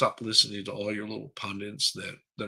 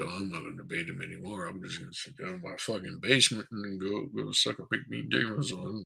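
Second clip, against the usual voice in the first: mock Biden; 5 semitones lower, 7 dB quieter, faster than usual.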